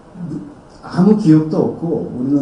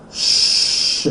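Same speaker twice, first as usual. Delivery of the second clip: wolf hiss. Retold or imitated. Wolf-faced nurses hissing.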